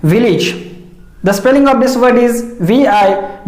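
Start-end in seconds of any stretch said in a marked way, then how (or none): 0.0-0.7 village ending in a short "-ij"; correct pronunciation. Shown as a demonstration. Teacher introducing an example word, correct village with "-ij". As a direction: say village as "VIL-ij". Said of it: "Its correct pronunciation is village".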